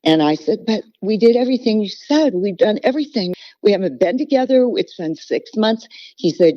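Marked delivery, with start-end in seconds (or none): 0.7-5.9 higher and fast, pleading through tears; crying plea. Retold or imitated. Wife pleads with pastor on the phone, crying. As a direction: beg him, near tears. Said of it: "I was crying".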